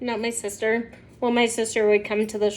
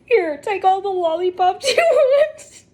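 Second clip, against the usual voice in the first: higher, laughing mock offer of lollipops; laughing teller; 6 semitones higher than usual. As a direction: blurt it out through laughter. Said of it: "and she goes".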